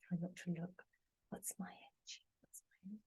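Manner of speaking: barely voiced whisper; very soft, absent-minded whisper; hushed to oneself. Real, not acted. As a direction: whisper it very softly, as if to yourself. Trying not to see her card.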